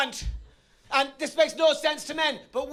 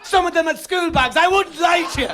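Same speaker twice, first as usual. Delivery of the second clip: shouting; 3 semitones higher, 6 dB louder than usual. Real, not acted. Building punchline shouted at crowd.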